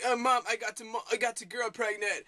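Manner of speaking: lightly imitated British accent; a rough stab at a Mary Poppins British accent; mock British accent. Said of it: "they sound like those people from the movie Mary Poppins".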